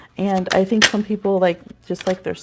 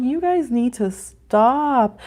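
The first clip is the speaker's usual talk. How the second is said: slow, drawn-out plea, higher pitched; mock exasperation; 4 semitones higher, much slower than usual. Mama telling her squabbling little ones off, slow mock exasperation. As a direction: stretch it out in playful exasperation. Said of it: "I'm like".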